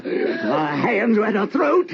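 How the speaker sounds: high, tearful voice; tears breaking through; high voice on the edge of tears; crying frenzy. Acted. Frenzy before the murder.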